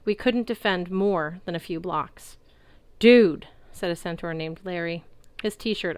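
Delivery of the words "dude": stoked dude. A narrator's reading. Party centaur exclaiming.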